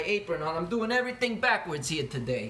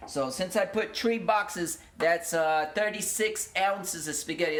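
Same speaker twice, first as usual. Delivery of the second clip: slow, stretched words, stuck in the same slow way; still slow talking; slower than usual. Shown as a demonstration. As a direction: keep dragging the words out slowly. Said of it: "I just got stuck talking like this and now I can't stop".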